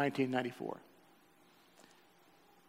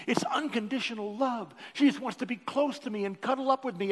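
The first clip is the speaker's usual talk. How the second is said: higher, tearful pleading to the Lord; choked-up gratitude rising in pitch; weeping prayer; 8 semitones higher than usual. Retold or imitated. A man weeping in prayer over his puppy, higher and tearful. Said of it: "I'm already kinda weeping".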